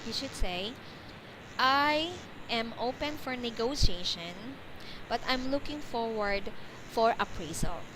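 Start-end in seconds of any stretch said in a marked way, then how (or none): 1.6-7.9 measured phrasing for a learner; teacher's example sentence, phrase by phrase; measured model sentence. Shown as a demonstration.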